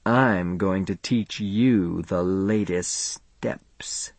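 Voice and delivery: slow, playfully menacing whisper; mock menacing whisper. A narrator's reading. Faye advancing on Charlie to dance, mock menacing whisper. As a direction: creep closer and whisper slowly. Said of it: "advanced toward me menacingly".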